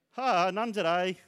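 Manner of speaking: dad's joke laugh. Retold or imitated. Parent opening the door to the kids, jokey mock laugh. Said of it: "what did I say?".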